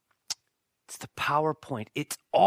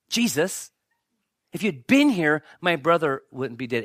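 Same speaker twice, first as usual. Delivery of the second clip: louder acted reproach, leaning on the blame; accusing Martha, imitated; 5 dB louder than usual. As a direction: confront him as if it's his fault. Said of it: "Almost making it his fault".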